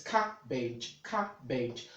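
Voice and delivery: "cabbage" said as two separated syllables, CAB-bage; careful pronunciation. Shown as a demonstration. Tutor repeating the word for learners, careful pronunciation. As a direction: repeat "cabbage" as a model, each syllable distinct. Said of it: "see the way it is being transcribed".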